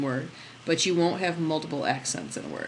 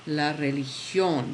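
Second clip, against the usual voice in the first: "religión" pushed on the final "gión"; slightly slow, land on "gión" in La religión; teacher demo of "religión" with the last syllable stressed; stress on the accent; 3 semitones lower, slower than usual. Shown as a demonstration. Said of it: "You always push on that where you see, um, the accented character".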